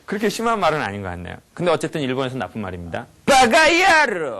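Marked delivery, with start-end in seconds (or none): 3.2-4.4 loud, high, long-drawn yell; full-on angry curse. Shown as a demonstration. Lecturer showing the right way to curse, enraged drawn-out yell. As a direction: roar it with total rage. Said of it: "얼굴 표정 이렇게 가야지".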